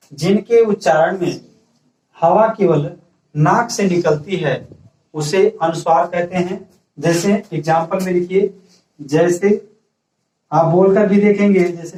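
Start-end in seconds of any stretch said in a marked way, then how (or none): 0.1-6.6 slow, even dictation pace for note-taking. Shown as a demonstration. Teacher dictating a definition to the class, slow and even. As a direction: spell it out slowly so students can write. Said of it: "ऐसे राइट कर सकते हैं".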